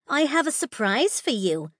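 high, teasing villain mother; sing-song voice. A narrator's reading. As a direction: dangle the surprise playfully. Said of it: "a sing-song voice called".

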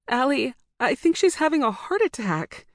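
high, urgent, frightened; panicked plea. A narrator's reading. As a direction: blurt it out in alarm. Panicked call to brother.

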